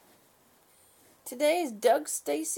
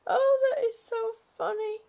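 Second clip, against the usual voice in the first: laughing; 8 semitones higher, 4 dB louder than usual. Real, not acted. Laughing at the story.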